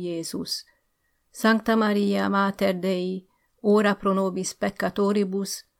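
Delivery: earnest recited Latin prayer, some words slowed; prayer recitation. Acted. Emboldened teacher reciting the Hail Mary to the staff, earnest recitation. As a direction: pray it out proudly, line by line.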